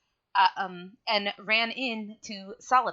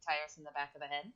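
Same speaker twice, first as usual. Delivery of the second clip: choppy mic dropouts; glitching audio; 3 semitones lower, 10 dB quieter than usual. Real, not acted. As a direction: voice breaking up. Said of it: "You keep cutting out".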